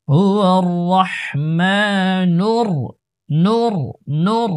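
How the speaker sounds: heavy, full r in রাহমানুর and নূর; thick ra. Shown as a demonstration. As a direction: recite হুয়ার রাহমানুর with a thick r. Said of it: "রর উচ্চারণ মোটা". (রাহমানুর, নূর-এর র মোটা করে)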